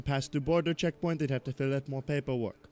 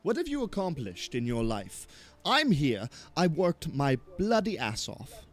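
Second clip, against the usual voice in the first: offended outburst; 3 semitones higher than usual. Acted. NPC snaps at accusing player.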